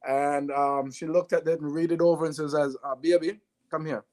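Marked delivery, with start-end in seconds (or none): 2.5-4.0 put-on light Jamaican accent as his mother; mom's Jamaican lilt, lightly done. Mother calling her son over, in a light Jamaican accent. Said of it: "in a Jamaican accent".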